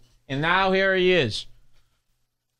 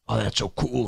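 mock awe; 7 semitones lower, 5 dB quieter than usual. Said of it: "like Mad Max".

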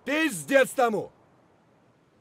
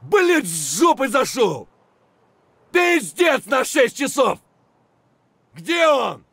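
loud, swearing alarm; alarmed battle shout; 5 dB louder than usual. Acted. Soldier flanked from behind, alarmed shout. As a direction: panic at being flanked. Firefight, enemy flanked them.

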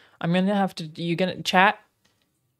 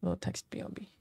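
whisper; 11 dB quieter than usual. Real, not acted. Whispering while adding text.

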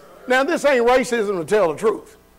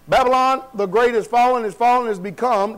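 strong proclamation; 2 semitones higher than usual. Acted. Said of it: "cried mightily with a strong voice".

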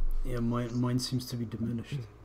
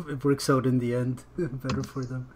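laughing. Real, not acted. Laughs while speaking.

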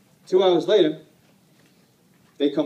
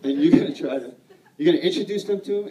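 high, loud, fast pep talk; wife urging her husband to sell in Alaska, fast and eager; 5 semitones higher, 6 dB louder than usual. Retold or imitated. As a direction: push him with fast enthusiasm. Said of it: "she was like".

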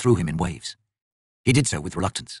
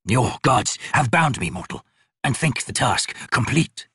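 slow, lightly voiced chained god; slower than usual. Chained god speaks slowly.

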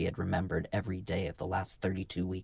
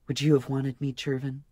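higher, tentative woman's question; uncertain voice; 7 semitones higher, 3 dB louder than usual. A narrator's reading. Marka asking if Jervin wanted her, uncertain. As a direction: ask it unsure of the answer. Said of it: "she asked in an uncertain voice".

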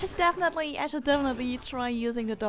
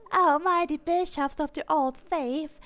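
solemn cult priest; 3 semitones higher than usual. Acted. Game ritual dialogue read.

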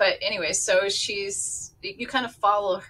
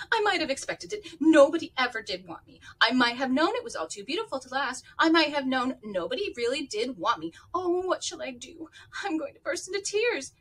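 put-on despairing child; 6 semitones higher, faster than usual. Orphan despairs, about to cry.

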